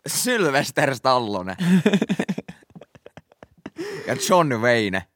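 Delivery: slow, drawn-out names; slow punchline. Acted. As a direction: stretch each name for effect.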